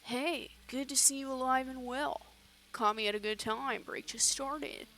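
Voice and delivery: easygoing put-on voice for a guy; lightly accented friendly local; improvised guy's voice. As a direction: greet them in a character voice. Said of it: "I don't remember what this guy's voice was".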